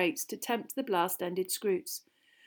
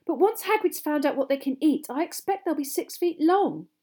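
higher, insistent warning; exasperated; 7 semitones higher, 5 dB louder than usual. A narrator's reading. Hermione predicting their growth to Ron, exasperated. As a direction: press the point impatiently, voice raised. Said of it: "in an exasperated voice".

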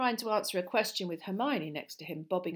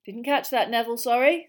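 loud, higher, rising cheery query; cheerful; 5 semitones higher, 12 dB louder than usual. A narrator's reading. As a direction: call over to the pupil brightly. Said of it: "said Professor Lupin cheerfully".

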